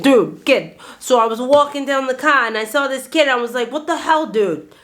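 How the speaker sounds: lightly hammed-up Boston accent. Shown as a demonstration. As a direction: put on a Boston accent with dropped R's. Demonstrating Boston way of talking.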